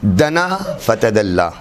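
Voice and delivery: slow "دنا" ending in long aa; careful correct reading. Shown as a demonstration. Teacher models the careful correct reading, slow and distinct. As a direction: recite "دنا فتدلہ" slowly, distinctly, with da-naa. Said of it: "اس کا بہت احتیاط کی جائے".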